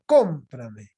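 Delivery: CÓM in "cómprame" punched, the rest dropping; esdrújula stress. Shown as a demonstration. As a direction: stress the first syllable of "cómprame" firmly. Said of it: "Todas llevan tilde".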